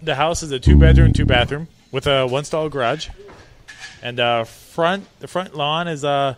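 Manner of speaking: live read of a home ad; listing read. Pretend. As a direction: read it like a real estate listing. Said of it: "live read the hell out of that".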